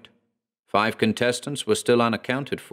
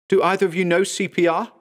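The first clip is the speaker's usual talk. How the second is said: higher, urgent call; yelling urgently; 10 semitones higher, 3 dB louder than usual. Acted. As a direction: shout for help. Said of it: "yelled New Forest".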